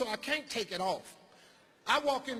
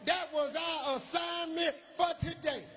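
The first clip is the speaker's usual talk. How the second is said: put-on indignant kid; 8 semitones higher than usual. Kid answers, shout.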